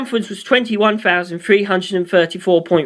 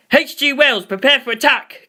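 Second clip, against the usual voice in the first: speaker announcement; 6 semitones higher than usual. A narrator's reading. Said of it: "came over the speakers".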